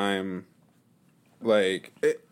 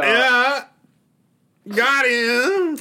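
laughing shout; 13 semitones higher, 7 dB louder, much slower than usual. Real, not acted.

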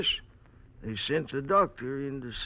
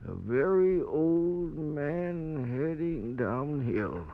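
put-on very old man. Old man calls himself very old.

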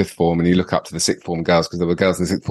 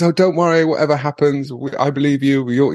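imitating tearful mum; 7 semitones higher than usual. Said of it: "And she goes".

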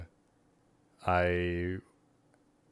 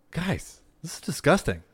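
imitating disgusted old woman; 8 semitones higher than usual. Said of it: "She's like".

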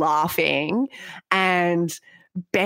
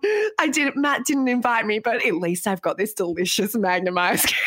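mock crying girl; faster than usual. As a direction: pretend to sob over being left out, sinking to usual pitch. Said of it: "crying into the Magnum".

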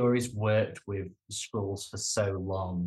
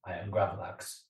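low, soft Groot rumble; much softer, lower Groot impression; mock Groot; 5 semitones lower, 9 dB quieter than usual. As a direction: drone it like Groot. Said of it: "he just starts going".

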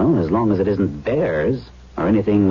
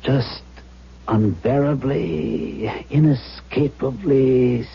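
slow, heavy sadness; sad, slow; 4 semitones higher, much slower than usual. Acted. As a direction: let each word sink, slow.

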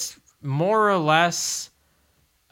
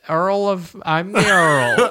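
put-on laughing British accent; 4 semitones higher, 3 dB louder, slower than usual. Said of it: "That's my best".

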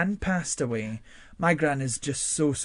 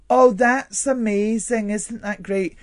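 mock over-sweet fake praise, slower; fake gushing praise; 5 semitones higher, 3 dB louder than usual. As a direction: gush insincerely like a fake flatterer. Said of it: "fake person that went".

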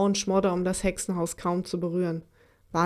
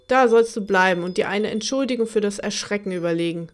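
firm; 3 dB louder than usual. Acted. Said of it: "sagte die Seefee bestimmt".

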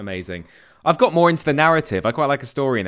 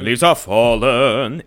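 epic trailer voice; 6 dB louder, much slower than usual. Pretend.

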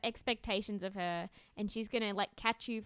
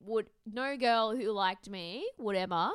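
mock indignation; 6 dB louder, slower than usual. Real, not acted. Mock indignant about costume.

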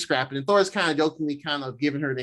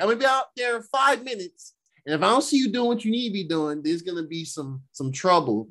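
higher-pitched, lightly acted scolding mother; retold mom warning; 4 semitones higher than usual. Thor's mom warning her son, lightly acted scolding. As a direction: give a mother's ultimatum, pitched up. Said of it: "on some mom shit".

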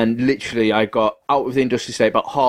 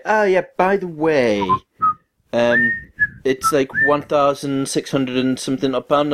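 slow, higher breezy voice of the mechanic; mechanic's casual news; 4 semitones higher than usual. Retold or imitated. Mechanic telling driver the bill, slow casual mock voice. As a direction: drop the bad news lightly, drawn out. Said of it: "he was just like".

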